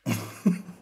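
soft, breath-only chuckle; quiet laugh. Real, not acted. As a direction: let out a small voiceless laugh. Reacting after lost round. (दबी हुई हल्की हँसी)

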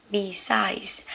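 besides as bi-SIDES, ending in s; besides said right. Shown as a demonstration. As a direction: say besides with a final s. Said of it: "cái này sẽ là besides". (đọc besides có âm s ở cuối)

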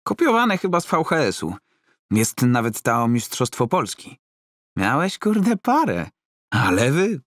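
put-on an admirer thrilled by old fight tapes; Roman, excited fan. Roman praising his coach's old fights, high and gushing.

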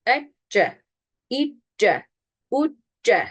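"Ece, İ, C, U, C" with held double c; correct shadda. Shown as a demonstration. Teacher drilling shadda, "Ece, İ, C, U, C" held and unbounced. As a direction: pause on the closure in "Ece, İ, C, U, C", release once. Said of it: "Şedde bu".

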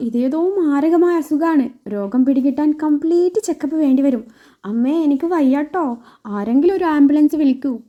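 milk the fatal illness act; faked pain. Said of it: "വർഷ അഭിനയിച്ച് തകർക്കുവാണ്".

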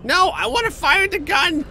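high, loud yell of insistence; loud demanding shout. Pretend. Begging turns into yelling.

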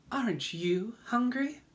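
high-pitched spider voice; female spider character. A narrator's reading. Spider turns to James, sudden high question. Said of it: "asked suddenly".

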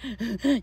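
short, contained gasp of hidden sobbing; demonstrated crying gasp. Shown as a demonstration. Survivor showing how to cry unnoticed, stifled gasp. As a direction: act out a sharp, stifled intake of breath. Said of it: "you can cry hysterically".

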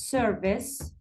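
service with the first syllable stressed; service, weight on its opening syllable; stress on SER. Shown as a demonstration. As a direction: lean slowly on the SER of service. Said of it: "الشدة تجي على الأس".

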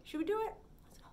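secretive little whisper. Acted. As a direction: lean in and whisper. Teacher whispers to kids.

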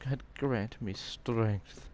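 slow, drawn-out invocation; hammed-up solemn plea; mock prayer. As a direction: intone it grandly, spacing out the words. Reads prayer aloud in mock solemnity.

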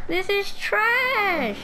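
drawn-out slow complaint; slow, exasperated wail; frustrated outburst. Real, not acted. Frustrated at five stars.

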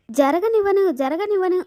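half-acted defiant shouting, repeating జరగనివ్వను; retold shout. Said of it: "అపూర్వ గట్టి గట్టిగా అరుస్తూ ఉంటుంది". (పైకి అరుస్తూ జరగనివ్వను అనడం)

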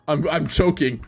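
shouting I'm choking in panic; panicked shout. Real, not acted. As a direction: yell it out in a panic. Panics over bad outfit.

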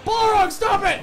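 high, loud panicked yell; yelling at the demon. Real, not acted. Gamer yelling at the Balrog to stop attacking, high and loud. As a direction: scream the order at the Balrog.

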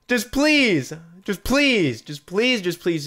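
whiny high begging, gradually fading; pleading that sinks from high to normal; desperate pleading. Real, not acted. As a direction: beg repeatedly, running out of steam. Begging the game for the item.

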